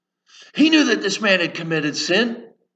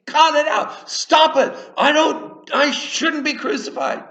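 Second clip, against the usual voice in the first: mild mock yell; 9 semitones higher than usual. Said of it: "screaming at him and cursing".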